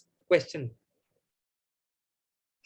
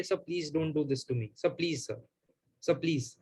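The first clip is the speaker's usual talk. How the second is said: softer, begging murmur; under his breath; 3 semitones lower, 6 dB quieter than usual. Retold or imitated. Begging the team leader not to hand over the call, softly. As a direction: plead quietly, as if afraid of being overheard. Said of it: "in my breath".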